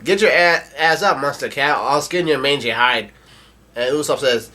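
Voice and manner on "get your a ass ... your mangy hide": half-hearted retold threat, starting raised; Zoro yelling. Zoro threatens the monster cat, imitated yell. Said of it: "Zoro yells out".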